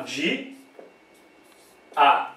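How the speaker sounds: Di-, A with a long pause between the syllables; split into syllables. Shown as a demonstration. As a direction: say Di-, stop, then A on its own. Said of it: "Como é que vai ficar separado?".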